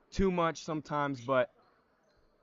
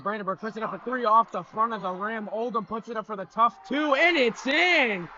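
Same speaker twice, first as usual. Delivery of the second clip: builds up high and louder to the basket; rising excitement; 6 semitones higher, 4 dB louder than usual. Real, not acted. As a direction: call the bucket as it drops. Play-by-play building to a score.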